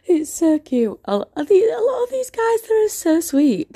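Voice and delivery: high-pitched cooing gush. Real, not acted. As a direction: coo over how adorable they are. Gushing over admirers.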